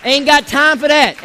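slow, loud, dismissive, leaning on got; emphatic dismissal. Shown as a demonstration. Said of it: "repeated three times".

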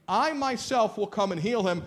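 high, firm declaration leaning on "I myself"; emphatic statement. Acted. Jesus answers before his disciples, emphatic "I myself". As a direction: declare "I myself" high, then fall to the end. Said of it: "Either Jesus is saying".

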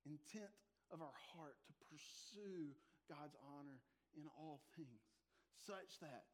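slow whisper on of our heart; preacher hushes the church to a whisper; whispered emphasis. Real, not acted. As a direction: drop to a hush to make the point land. Sermon point, voice drops.

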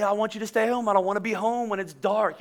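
lightly imitated pleading young wife; a hint of a coaxing girly voice; girlish pleading. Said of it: "I didn't talk in that voice".

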